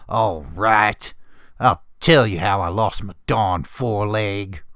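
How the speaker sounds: a mild, grudging growl. Acted. Old pony growls at nosy foals, mildly. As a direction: grumble it out through clenched annoyance. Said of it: "I growled".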